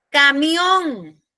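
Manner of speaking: Camión with a long, weighted final MIÓN; stress on caMIÓN. Shown as a demonstration. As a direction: stretch and stress the end of Camión. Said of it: "Fíjense que termina en N". (Camión con la última sílaba fuerte)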